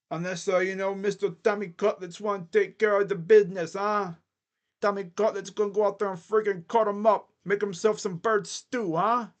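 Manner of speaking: a lightly put-on New York mobster accent, half-joking; hamming up a loose New York mob accent for the Giants QB; mock mobster accent. Hyping Tommy Cutlets to his listeners, in a mild mock New York mobster accent. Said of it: "I don't even know what kind of accent that is".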